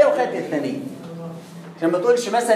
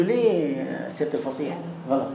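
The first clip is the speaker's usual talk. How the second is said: lower, softer, mocking "your eloquence"; sarcastic jab at a know-it-all student; mock sarcastic retort; 8 semitones lower, 7 dB quieter than usual. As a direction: tease him with dry sarcasm, voice dropped low. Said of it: "قول له".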